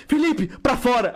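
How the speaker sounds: slow, firm send-off, lightly acted; mock-stern classroom command; retold teacher's order. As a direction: imitate a teacher ordering someone out.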